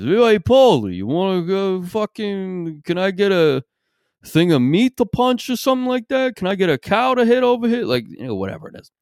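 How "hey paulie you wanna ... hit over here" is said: high, slurry New York guy; mock slurred New York accent, words dragged; Sylvester Stallone. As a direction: slur it like a groggy New Yorker after dental surgery. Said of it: "a slurry New York guy".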